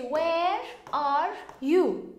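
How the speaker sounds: each word drawn out slowly; slow demo. Shown as a demonstration. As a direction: say it slowly so students catch it. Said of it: "Or you could say".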